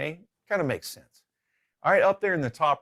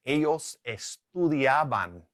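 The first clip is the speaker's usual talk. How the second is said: slow Spanish example; drawn-out teacher's demonstration; slow model answer; 2 semitones higher, slower than usual. Shown as a demonstration. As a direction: say it slowly for learners.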